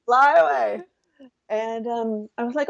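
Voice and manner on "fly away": high, playful call to run off; giddy escape fantasy. Retold or imitated. Woman imitating her younger carefree self, giddy and high. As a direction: sell the thrill of skipping town.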